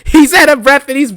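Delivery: laughing. Real, not acted. Laughing at out-of-breath wrestler.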